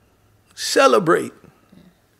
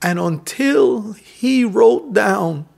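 slow proclaiming; 4 semitones higher, slower than usual. Acted. Emphatic proclamation.

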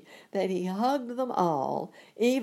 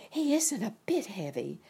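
eager; 4 semitones higher than usual. Acted. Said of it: "said Dorothy eagerly".

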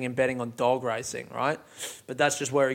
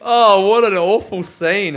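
amused disbelief; 5 semitones higher, 8 dB louder than usual. Real, not acted. Laughing disbelief at the scene.

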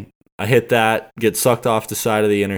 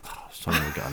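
low, soft grumble under the breath; resigned mumble at the flashing lights; muttered curse; 6 semitones lower, 12 dB quieter than usual. Retold or imitated. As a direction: mutter it to yourself, deflated. Muttered reaction to police lights.

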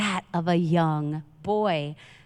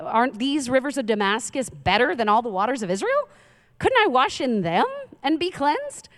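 indignant rhetorical questions, climbing higher; mock rage; 5 semitones higher than usual. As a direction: challenge them in mildly acted outrage. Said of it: "went off in a rage".

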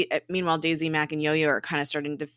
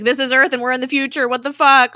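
higher, louder and fast, then a loud what the fuck; shocked outburst; 8 semitones higher, 11 dB louder, faster than usual. Retold or imitated. Coulson and May realizing they are in the future, shocked shout. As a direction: blurt it out in mock disbelief.

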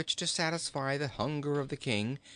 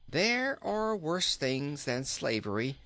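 lightly voiced storybook king, turning to coaxing; musing, hungry king; 5 semitones higher than usual. King asks the boy for food, lightly put-on musing voice. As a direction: muse a little, then plead a bit higher.

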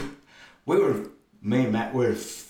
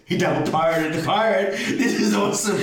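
excited quote; 8 semitones higher, 4 dB louder than usual. Retold or imitated. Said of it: "he goes".

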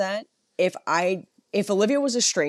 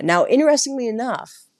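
lightly voiced calm guide; a hint of the confident, measured guide; even-toned tour guide. Guide recounting a witch trial to tourists, calm and even. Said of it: "that even toned voice".

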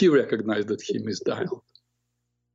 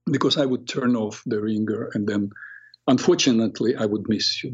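speaking nicely. Retold or imitated. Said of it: "like, speaking nicely".

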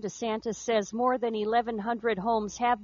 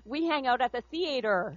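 put-on thick Wisconsin accent saying theater; the old northern accent she used. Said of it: "you taught me how to say theater".

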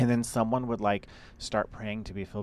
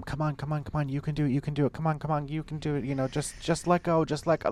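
high-pitched mock church coaxing; cheering someone on; 7 semitones higher than usual. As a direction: urge them on, come on, let go. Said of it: "like, yelling at them".

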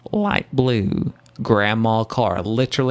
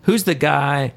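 Seinfeld impression; 3 semitones lower than usual. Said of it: "I can't do a good anything off of Seinfeld".

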